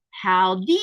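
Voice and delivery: howdy stretched out, swooping up loud; long, loud greeting with a rising end; drawn-out howdy. Acted. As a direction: sing out a playful, rising howdy. Reading a viewer's drawn-out greeting.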